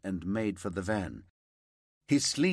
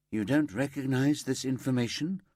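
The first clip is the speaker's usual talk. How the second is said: disbelief; 4 semitones higher than usual. Acted. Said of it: "Paula laced her voice with disbelief".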